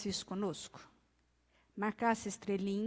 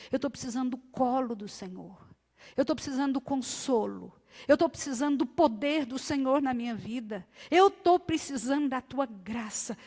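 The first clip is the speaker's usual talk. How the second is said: tearful plea to God. Acted. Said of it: "Quando nós clamamos por socorro".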